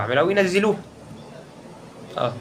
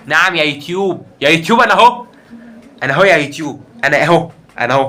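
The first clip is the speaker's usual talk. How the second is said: defiant calling out; 5 dB louder than usual. Real, not acted. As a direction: call out to YouTube. (نداء متحدي ليوتيوب)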